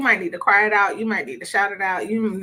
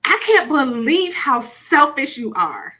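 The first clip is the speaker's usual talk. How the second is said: accusing wife; 3 semitones higher, 5 dB louder, slower than usual. Acted. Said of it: "let me just keep reading".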